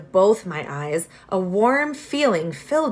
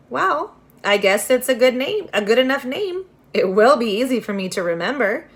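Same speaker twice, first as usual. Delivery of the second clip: put-on higher, bright-eyed girl voice, amused; a girl hiding a smile; lightly voiced young girl; 5 semitones higher, 4 dB louder than usual.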